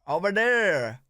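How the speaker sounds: imitated American accent. Shown as a demonstration. Learner repeating after the coach, imitated reservation accent. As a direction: copy the coach's reservation accent, "dere" for "there". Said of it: "you won't be able to say the T H sound".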